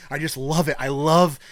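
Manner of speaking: high, loud, greedy demands for wine; mock indulgent diner. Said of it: "she was like".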